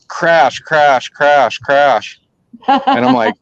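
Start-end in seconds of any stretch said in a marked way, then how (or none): 0.1-2.2 evenly punched crashing beats; imitated antler clash. Hunter imitating two bucks fighting, percussive. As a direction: hit each crash as a separate impact.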